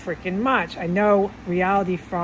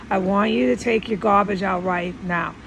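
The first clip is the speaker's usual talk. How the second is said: stern deeper voice. Retold or imitated. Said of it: "It's a deeper voice".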